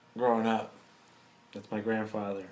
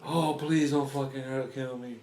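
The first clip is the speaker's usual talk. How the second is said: slow, whimpering imitation of a begging coward; mock crying plea. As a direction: mimic him sobbing and begging, slowed down.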